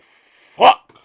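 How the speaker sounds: sudden loud swear; loud curse. Retold or imitated. Puff cursing when told it's too late, loud outburst. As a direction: blurt the curse out hard.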